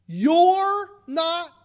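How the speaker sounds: incredulous question. Shown as a demonstration. Preacher drawing the congregation's protest, slow incredulous question. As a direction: stretch the shocked question out.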